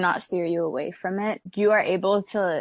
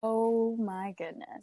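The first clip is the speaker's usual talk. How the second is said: shocked gasp; 3 semitones higher, 6 dB quieter than usual. Real, not acted. Reacting to shocking story.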